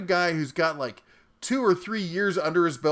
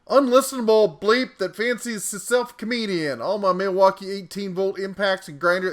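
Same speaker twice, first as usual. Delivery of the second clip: put-on Southern accent; 3 semitones higher than usual. Bear reads out a cat's nasty comment, in a Southern accent. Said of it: "I'm using a Southern accent".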